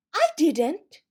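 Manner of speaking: high, loud quick denial; hurried cry. A narrator's reading. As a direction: blurt it out in a rush. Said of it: "cried in a great hurry".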